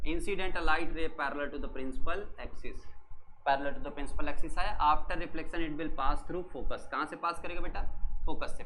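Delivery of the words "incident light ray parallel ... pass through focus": slow, word by word for notes; slow dictation. Shown as a demonstration. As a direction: dictate it slowly so students can write. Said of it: "dictating the rule". (धीरे धीरे लिखवाना)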